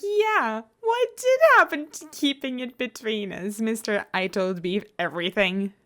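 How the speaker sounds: a playful, indignant impression of Etho; mock Etho retort. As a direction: throw the accusation right back. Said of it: "And it's like".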